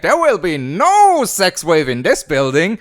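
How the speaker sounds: lightly voiced indignant old lady. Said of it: "an old lady is like".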